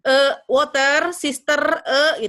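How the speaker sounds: the e of water and sister, loud and drawn out; short neutral uh in water, sister; schwa e. Shown as a demonstration. Teacher demonstrating the schwa. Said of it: "E itu tadi sama kayak yang water".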